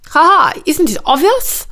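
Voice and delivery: high, loud mock laugh into the question; witchy aunt's acted, amused scoff. A narrator's reading. Witch aunt amused by her clueless nephew, laughing. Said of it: "laughed his witchy aunt".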